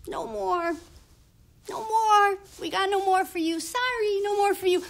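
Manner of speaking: a hint of an official turning someone away; dismissive clerk. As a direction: call out the refusal to the queue. Clerks turn him away in line.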